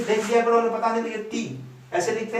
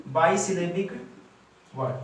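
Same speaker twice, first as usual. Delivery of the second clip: dictated term; 3 semitones lower, 4 dB quieter than usual. Shown as a demonstration. Teacher repeats term in parts.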